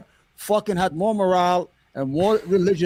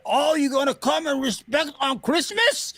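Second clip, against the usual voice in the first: high, slow mocking whine; mocking his opponent; 7 semitones higher, slower than usual. Mocking the rival host's outrage in a high, slow whine. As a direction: sneer it like the rival debater. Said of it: "He started barking like the fucking".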